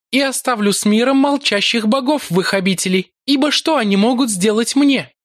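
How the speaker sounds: high, poisonous and mocking; venomous. A narrator's reading. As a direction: drip venom, sure of her power. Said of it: "прибавила она ядовито". (ядовито)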